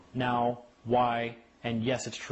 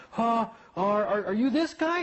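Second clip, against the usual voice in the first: high, startled clerk voice; a clerk stunned to meet him; surprised clerk; 9 semitones higher, 3 dB louder, slower than usual. Retold or imitated. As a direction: sound caught off guard, pitched up.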